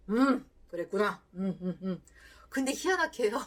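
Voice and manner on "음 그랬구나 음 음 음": a hint of robotic, soulless 그랬구나; robotic reply. Husband's first tries at empathy, mildly robotic. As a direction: say 그랬구나 flat like a robot, no feeling. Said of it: "로봇이었어요".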